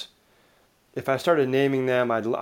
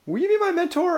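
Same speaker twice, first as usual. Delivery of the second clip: much higher, sing-song plea; imitating an overeager mentee asking; awkward ask. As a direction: ask it like an eager, awkward kid. Retold awkward mentor request.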